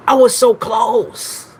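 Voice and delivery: mock-anguished whine; whiny wail. Real, not acted. Whining after missed guess.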